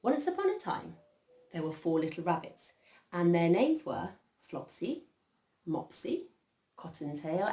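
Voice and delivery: put-on measured, lilting children's storytelling; story narration. A narrator's reading. Adult reading Peter Rabbit to children, measured storytelling. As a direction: introduce the four little rabbits with pauses between the names. Reads a picture story aloud.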